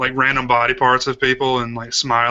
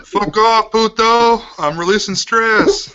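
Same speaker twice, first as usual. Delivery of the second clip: higher, louder mock snarl; mock tough guy; 9 semitones higher, 4 dB louder, much slower than usual. Friend pretending to be the movie character, telling someone off. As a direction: snap it like a guy caught in the act.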